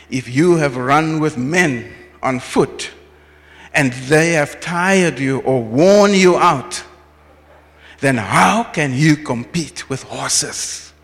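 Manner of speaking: measured booming proclamation; slow, weighty divine voice. Retold or imitated. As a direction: read it slowly, like God speaking. God's answer read slowly, louder.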